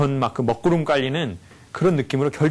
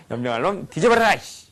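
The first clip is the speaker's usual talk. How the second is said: cursing with real venom, raised pitch; demonstrated angry curse; 3 semitones higher than usual. Shown as a demonstration. Lecturer showing the audience how to curse, heartfelt anger. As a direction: spit out the curse like you mean it. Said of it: "이렇게 하는 거예요".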